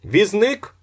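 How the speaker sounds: loud high call for a cab; yell. A narrator's reading. Ostap yelling loudly for a cab driver. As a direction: holler for the cabman across the street. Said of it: "заволав Остап".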